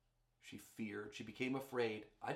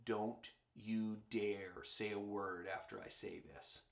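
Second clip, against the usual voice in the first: warning tone; 2 semitones lower, slower than usual. Retold or imitated. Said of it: "in a tone of voice that says".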